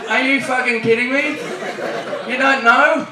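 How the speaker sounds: high-pitched incredulous retort; mock exasperation. Australian answering American friends' stupid question, high mock exasperation. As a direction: act appalled by a stupid question.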